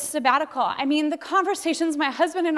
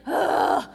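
heavy acted sigh of frustration; exasperated groan. Speaker confesses clinging to control, frustrated groan. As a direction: groan out the strain of holding on.

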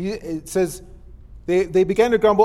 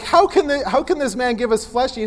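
mildly raised, disputing question; sharp arguing; 2 semitones higher than usual. Acted. Crowd disputing what Jesus said, mildly sharp arguing. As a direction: put on a touch of baffled objection. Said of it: "began to argue sharply".

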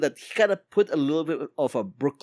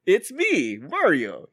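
mock Mario catchphrase; 3 semitones higher, much slower than usual. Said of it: "And he goes".

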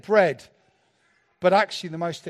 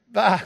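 short, loud mock bleat; half-hearted sheep imitation; 7 dB louder than usual. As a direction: throw out a token sheep noise. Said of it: "that sheep do".

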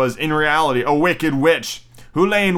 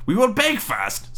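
high, slow witch voice; old witch; 8 semitones higher, slower than usual. Acted. Witch planning by the oven, high slow voice. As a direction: announce it high and drawn out. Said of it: "said the old woman".

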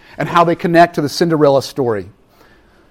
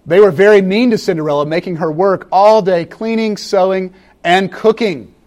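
storybook reading. Acted. Fast storybook reading opening sermon.

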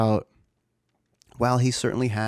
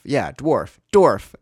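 playful excitement; 4 semitones higher, 7 dB louder, much slower than usual. Real, not acted. Playful word game with son.

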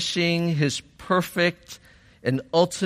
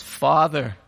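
raised voice easing at the end; mild retold yell; 3 semitones higher than usual. Preacher voicing Jesus at the end, mildly yelling. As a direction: call it out, then let it settle. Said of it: "he yells".

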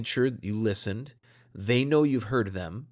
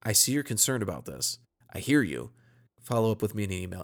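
calm. Shown as a demonstration. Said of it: "a very calm".

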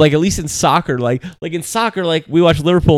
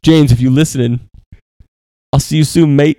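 put-on shitty English accent; 8 dB louder than usual. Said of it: "That was a shitty accent".

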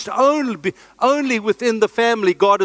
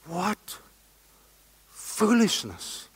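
scornful; 8 dB quieter, much slower than usual. Real, not acted. Scornful dismissal.

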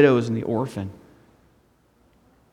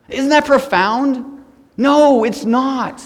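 mock profound; 9 semitones higher, 3 dB louder, much slower than usual. Real, not acted. Joking about his own phrase.

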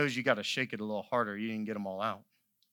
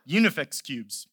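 laughing; 2 semitones higher, 8 dB louder than usual. Real, not acted. Laughs recalling the word.

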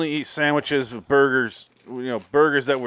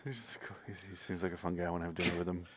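raspy whisper; 6 semitones lower, 19 dB quieter, faster than usual. Retold or imitated. Keeping the raspy voice.

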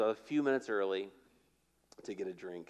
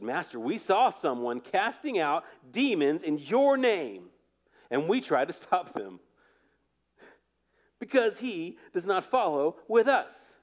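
a touch of indignation, rising; indignant disciples; 5 semitones higher, 4 dB louder than usual. Acted. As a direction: reads the disciple with mild outrage. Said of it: "You hear the indignation in their voice".

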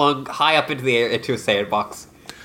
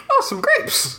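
dad voice. Retold or imitated. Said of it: "He also goes".

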